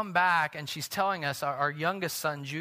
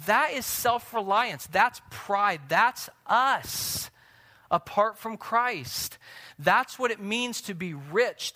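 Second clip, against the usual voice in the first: louder, higher preacher's punch; raised pulpit voice; fiery preaching; 5 semitones higher, 4 dB louder, slower than usual. Acted. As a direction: drive the point home to the congregation. Preaching at full force.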